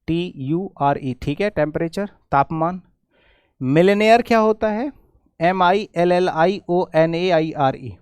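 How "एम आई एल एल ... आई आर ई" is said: letters spelt slowly one by one; slow spelling out. Shown as a demonstration. Teacher spelling millionaire slowly for students. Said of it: "मिलेनियर होता है".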